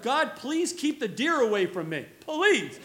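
playful, exaggerated begging; comic pleading prayer. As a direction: beg God in mock desperation. Acted plea while driving.

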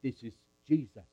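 mild stage whisper; hushed. Acted. Mary and Joseph answer Anna at once, in a hushed voice. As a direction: confide it in a hush. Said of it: "We said in a whisper".

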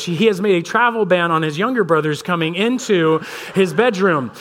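usual speaking voice

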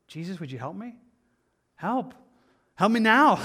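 desperate cry for help. Acted. Peter crying out while sinking.

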